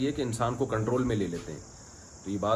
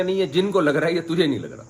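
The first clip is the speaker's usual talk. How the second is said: louder and higher, hammed-up stern teacher; mock stern insistence; 5 semitones higher, 5 dB louder than usual. Teacher mockingly insists to the faking boy, loud and higher. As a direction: insist it back at him, playfully stern.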